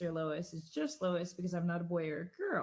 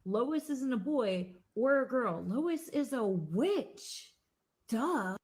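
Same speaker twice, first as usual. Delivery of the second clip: put-on child yelling; 4 semitones higher, 4 dB louder than usual. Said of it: "suddenly yells".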